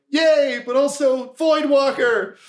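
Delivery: high-pitched crowd cheer; cheering goblins. Acted. Goblins cheer as body falls.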